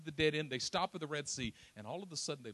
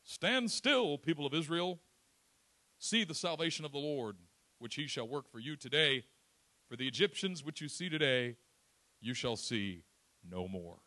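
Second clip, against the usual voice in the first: Moses proclaiming; 6 dB louder than usual. Acted. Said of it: "listen to what Moses says".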